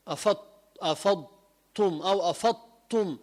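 أفضتم with the ض sounding like a ط; dad turned to ta. Shown as a demonstration. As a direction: let the ض in أفضتم slide into a ط. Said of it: "بتتحول لطاء". (الضاد تتحول طاء في أفضتم)

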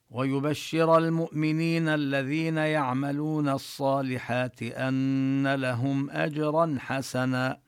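slow chanted recitation; tajweed recitation; Quran recitation. Shown as a demonstration. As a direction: recite slowly and melodically. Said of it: "recites the verse".

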